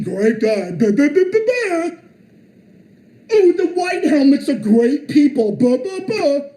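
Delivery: mocking parroting. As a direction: sneer out the slogans like a bleating sheep. Parroting opponents' slogans.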